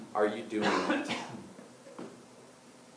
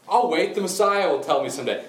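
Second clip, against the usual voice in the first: putting it off; 7 semitones higher, 6 dB louder than usual. Acted. Voices woman putting off Jesus.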